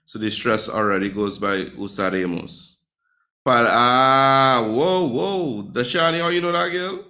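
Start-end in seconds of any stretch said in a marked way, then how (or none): 1.8-2.8 "usaremos" with the stress on the e; stress on second-to-last syllable. Shown as a demonstration. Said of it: "e is the second to last". 3.4-7.1 high-pitched, astonished whoa; impressed disbelief, pitch jumping up; amazed. Real, not acted. Teacher amazed at student's knowledge.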